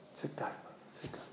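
muy bajito, calmando a alguien; tranquilizador. Retold or imitated. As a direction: baja la voz para apaciguar a quien grita. Dueño calma a la madre que grita. (voz baja y calmante)

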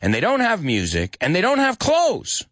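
high exasperated list, peaking on the last item; acted frustrated rant. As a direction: tick off each lack in rising disbelief. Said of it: "He's starting to get frustrated".

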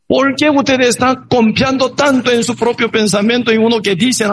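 alto, llamando a lo lejos, a un rey; grito. Acted. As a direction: gritar desde lejos para que el rey oiga. (grito alto y lento de llamada)

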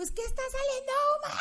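fast, very high frantic cry; high, hurried desperate plea about the smoke. Retold or imitated. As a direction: rush it out in sheer panic. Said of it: "yo toda desesperada".

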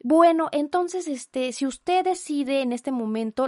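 lightly voiced pushy phone saleswoman; a hint of a scripted sales pitch; mock saleswoman. Imitating the insurance promoter pushing the offer, lightly voiced sales pitch.

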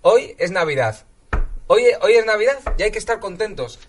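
loud, emphatic motivational shout; rally them like a self-help coach; fired-up declaration. Acted. Coach rallying the office, shouting it's Christmas.

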